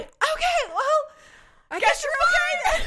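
high sing-out, ending in laughter; awkward calling back. Retold or imitated. Driver answers the cursing woman, high awkward mock politeness.

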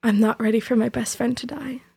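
hushed, whispery retelling of a sob; understated, breath-only echo of sobbing; retold sob. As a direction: half-whisper it, recalling tearful words. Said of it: "And I just sobbed".

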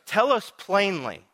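high, demanding "tell us"; impatient crowd. Retold or imitated. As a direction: press him for a straight answer. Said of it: "he goes".

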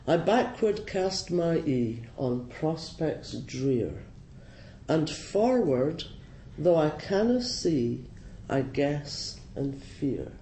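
slow, measured verse reading; poem recitation. Acted. Ploughman talking to the mouse, slow poetic recitation. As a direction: recite the verse slowly, drawing out each phrase.

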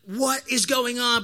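bewildered. Acted. New dad as random strangers run in, bewildered. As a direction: stretch it out in baffled disbelief.

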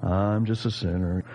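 low, mildly glum self-pity; Eeyore. Acted. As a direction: sigh it out like a mopey donkey, lightly. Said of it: "Eeyore theology".

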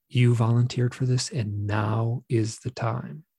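slow, measured reply from the beings; beings' pronouncement. Retold or imitated. Beings answering the upset man, slow even pronouncement. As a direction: hand down a lightly voiced verdict, word by word. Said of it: "And they went".

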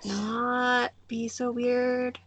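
high, stretched-out mock plea; mock awkward plea. Churchgoer asking the pastor's wife to tone down, mock pleading.

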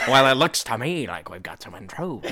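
villainous henchman line, laughing through; menacing guard voice. Acted. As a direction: play the gleeful evil guard. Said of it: "It's like".

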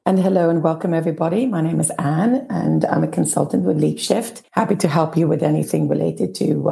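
hoarse, croaky throat; talking through a croaky voice. Real, not acted. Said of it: "apologies for the croaky voice".

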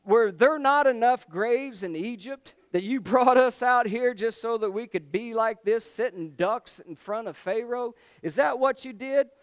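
high, loud, blaming rant at Moses; accusing Moses. Retold or imitated. People blaming Moses at the sea, loud mock accusation. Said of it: "To Moses".

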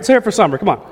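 loud high shout to crowd; rally everyone behind her. Real, not acted. Urging the crowd on.

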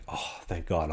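low, very soft sigh of relief; acted relief. Player told his bags are found, hushed relief. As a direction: let it out quietly, relieved.

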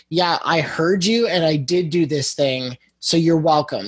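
a lightly snarky "so you're welcome", slow at the start; grudging you're welcome. Retold or imitated. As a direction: say it as if the thanks were owed to you. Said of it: "and he's not being like".

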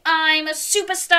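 high, proud superstar announcement; showy cheer. Shown as a demonstration. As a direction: sing it out for children to copy. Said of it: "and say".

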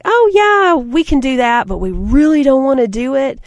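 bright, high mock enthusiasm; fake eager yes. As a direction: chirp a fake yes you don't mean. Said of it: "we're like".

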